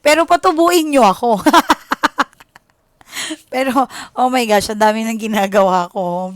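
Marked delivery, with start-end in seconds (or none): 1.5-2.2 a loud, real laugh breaking out; burst of laughter. Real, not acted. Tarot reader laughing at her own request to viewers, loud laugh. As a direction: laugh freely into the mic.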